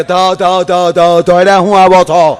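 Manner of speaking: doctor scolding, stuck on every syllable; stammering doctor. Retold or imitated. Stammering doctor scolding a late-night patient, mild stutter. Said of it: "ઈ મને મીડા ખખલાવે કે".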